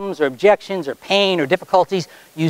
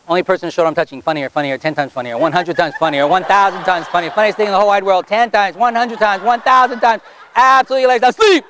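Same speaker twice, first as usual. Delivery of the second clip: hypnotist retelling the laugh routine; retold laugh suggestion; 2 semitones higher than usual. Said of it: "If I came up to you and touched your shoulder and said".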